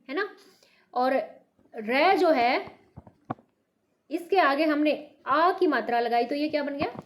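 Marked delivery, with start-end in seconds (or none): 1.7-2.8 रे drawn out slowly for pupils; teacher spelling aloud; slow sounding out. Shown as a demonstration. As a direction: say रे slowly and clearly. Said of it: "teacher sounds out syllable".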